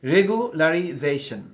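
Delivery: রেগুলারাইজেশন said slowly, every syllable clear; careful classroom repetition; slow repeat. Shown as a demonstration. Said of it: "এটাকে আবার বলা যায়".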